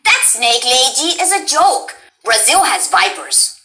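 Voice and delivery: slow, lightly voiced scornful heroine; unhurried, accented game-character putdown. Voice line for a subscriber, slow and scornful. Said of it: "gets a raised voice line".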